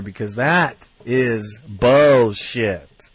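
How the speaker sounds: slow, heavy, fed-up declaration; emotional outburst. Real, not acted. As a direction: lean hard into each word, disgusted. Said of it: "I get a little emotional".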